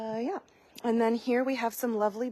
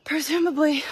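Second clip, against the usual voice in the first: out of breath; 2 semitones higher, 4 dB louder than usual. Real, not acted. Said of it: "oh my God, I'm so out of breath".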